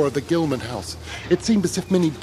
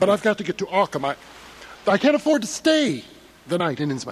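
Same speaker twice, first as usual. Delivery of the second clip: anxious protest; 5 semitones higher than usual. Acted. Traveller protests being stranded.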